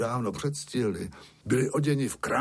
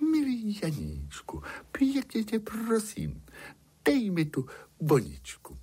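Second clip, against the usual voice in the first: higher, sugary princess plea; sweetest voice; 8 semitones higher than usual. A narrator's reading. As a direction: coax him with the sweetest voice. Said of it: "tím nejsladším hlasem". (princezna prosí ovčáka nejsladším hlasem)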